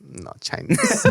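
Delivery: slow, high, drawn-out "No, Chinese"; waitress insisting with mock accent; mock stubborn waitress. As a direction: stretch it out, refusing to budge. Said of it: "Yeah, but I'm Korean".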